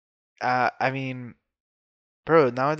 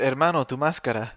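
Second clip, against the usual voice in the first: Spanish. Retold or imitated. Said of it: "So you said".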